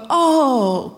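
drawn-out pitying "ohh"; sympathetic "oh". Shown as a demonstration. Comedian shows audience the reaction to avoid, pitying "oh". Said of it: "can you please not go".

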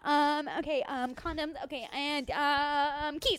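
frazzled daughter, hurried; flustered teenage girl rushing; silly clown. Acted.

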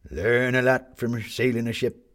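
put-on slow old sailor voice; salty old seaman, slowly; gruff old fisherman. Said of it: "said the old sailor".

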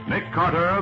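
ordinary delivery

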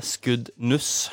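"skuddnuss" ending in -nuss; misheard place name. Shown as a demonstration. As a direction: say "skuddnuss" with u in the last syllable. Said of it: "noen tror det er".

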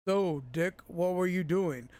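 attempted American line with British accent creeping in; Jorah's accent slipping through. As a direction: mimic an actor failing to hide his British accent. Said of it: "he keeps his accent".

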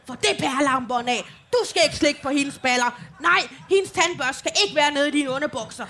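mock stern and earnest telling-off; dead serious. Mother scolding her kids in full earnest, lightly mocked. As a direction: scold with a straight face. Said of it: "helt i ramme alvor sådan".

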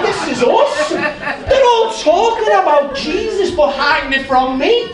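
high, loud, laughing through the words; giddy laughing exclamation; laughing delight. Retold or imitated. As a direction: crack up with joy as you say it.

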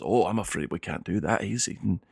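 lightly voiced dwarf servant. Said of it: "he says".

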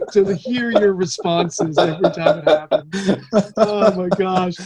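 words spill out through real laughter; laughing. Real, not acted. Host cracking up at his guest's answers, laughing. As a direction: laugh your way through the line.

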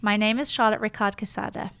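name said in plain English pronunciation; English version. Shown as a demonstration. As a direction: introduce yourself in everyday English voice. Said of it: "I'll say it in the four languages".

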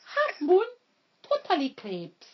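high half moon, slow final phrase; advert catchphrase. Retold or imitated. Reciting the Jaffa Cakes commercial, advert catchphrase. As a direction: play out the old advert slogan.

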